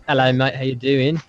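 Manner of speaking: hesitant, amateur Aussie greeting; attempted Australian accent. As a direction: try a mild Australian accent, not very convincingly. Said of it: "want you to talk Aussie".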